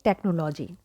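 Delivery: "technology" as tek-no-LO-jee, with "no"; mispronounced technology. Shown as a demonstration. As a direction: put a long O in "technology". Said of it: "I've seen people pronounce it like".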